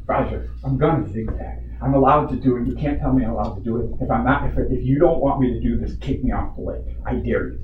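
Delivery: measured, defiant challenge; firm dare. Retold or imitated. Jet skier daring Roger to kick him off, firm defiance. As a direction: re-enact standing your ground, voice held down. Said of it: "I said it exactly like that".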